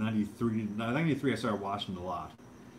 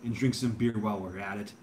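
Cinestalker impression. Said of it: "Your impression of Cinestalker".

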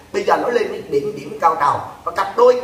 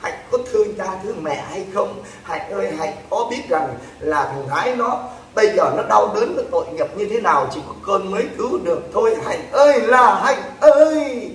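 mock pleading grandfather. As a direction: plead with Hạnh in a hint of an old man's whine. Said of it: "ông nội cũng tham gia vô". (giả giọng ông nội van xin)

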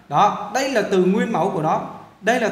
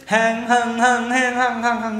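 mimicking mechanical chanting of one word; rote repetition; 4 semitones higher, slower than usual. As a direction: drone it over and over like rote study. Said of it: "chúng ta cứ học lý thuyết". (nhại kiểu học vẹt, lặp đều đều)

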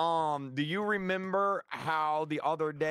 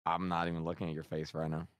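much lower silly duck voice; 10 semitones lower, 4 dB quieter than usual. Pretend. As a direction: put on a goofy duck voice. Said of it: "Why do you sound like a duck?".

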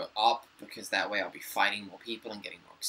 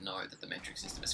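breathy whispered aside; whispering; 4 semitones lower, 11 dB quieter, faster than usual. Real, not acted. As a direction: whisper it incredulously.

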